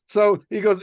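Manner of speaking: ordinary talk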